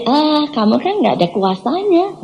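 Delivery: lightly voiced devil, drawn out and slow; taunting devil. Devil belittling the preacher's power, mildly mocking. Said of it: "iblis ngomong begini".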